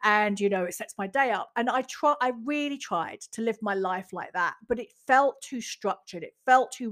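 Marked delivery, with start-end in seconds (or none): 0.0-1.5 lightly voiced smug self-help guy; mocking the author. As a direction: rattle off his routine with a mild mocking edge. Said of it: "he's like".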